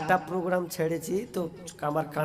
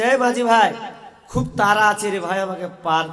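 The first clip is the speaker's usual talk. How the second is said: louder, raised hail to a boatman; calling out; 3 semitones higher, 5 dB louder than usual. Acted. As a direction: call over to the ferryman in a hurry. King hails boatman in a story.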